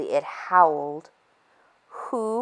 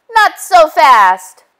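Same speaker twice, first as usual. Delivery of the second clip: high, loud and drawn out; high, slow shriek; 10 semitones higher, 10 dB louder, much slower than usual. A narrator's reading. Spider stopping the wolf, slow loud shriek. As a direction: make them freeze. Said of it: "shrieked Spider".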